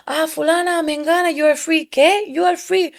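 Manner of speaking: high, far-off announcing voice calling each woman free; calling out names. Retold or imitated. Guard announces freedom to each woman, high calling voice. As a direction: sing out the names like a guard at roll call.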